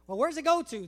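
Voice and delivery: put-on loud, eager kid's follow-up question; inquisitive kid. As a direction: keep pestering like a curious child. Kid asking again.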